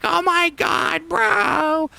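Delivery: very high, loud, stretched-out scream; over-the-top hollering; imitated yelling. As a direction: mimic someone screeching into the mic. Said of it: "'cause you were yelling".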